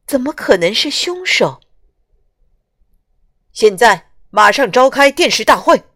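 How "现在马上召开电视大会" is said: loud firm order from the chief; commanding order. Acted. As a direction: bark the order to assemble. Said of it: "警长命令道".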